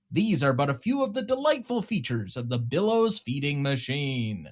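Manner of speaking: lightly done infomercial pitchman voice; smooth salesman pitch, selling hard. Pretend. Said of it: "Did I do enough infomercial voice there".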